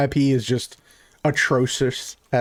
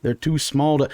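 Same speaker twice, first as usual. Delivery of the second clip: a touch lower, hesitant protest; Clyde; 4 semitones lower than usual. Acted. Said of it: "And Clyde goes".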